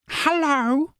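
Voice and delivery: high squeaky hello, far above own voice; mock commenter voice. Tarot vlogger mimicking a viewer's greeting, squeaky high. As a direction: chirp it like the viewer would.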